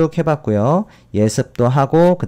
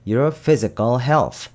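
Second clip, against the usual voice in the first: slow reading; much slower than usual. Shown as a demonstration. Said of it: "reading the example sentence slowly".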